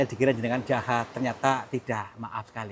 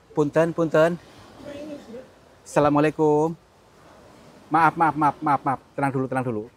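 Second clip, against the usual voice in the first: louder, rushed apologies; begging pardon of a spirit, louder; pleading apology; 3 semitones higher, 4 dB louder than usual. Real, not acted. Calming an unseen spirit.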